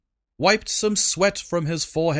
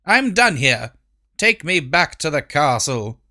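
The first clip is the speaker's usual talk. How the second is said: commanding queen; 4 dB louder than usual. Acted. Queen orders driver.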